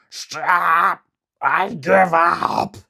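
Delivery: loud, slow pleading cry; king crying out. Acted. Demon king begs Momotaro to stop, loud pleading cry. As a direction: beg for mercy in a headlock. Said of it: "cried the king".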